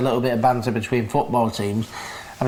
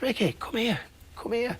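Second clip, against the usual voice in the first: pilot beckoning; 8 semitones higher, 7 dB quieter than usual. Retold or imitated. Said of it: "the pilot goes".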